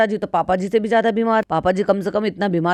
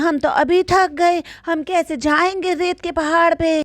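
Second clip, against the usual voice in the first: imitating Ammi; 6 semitones higher than usual. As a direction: whine it like a weary elderly mother. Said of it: "अम्मी कहती हैं".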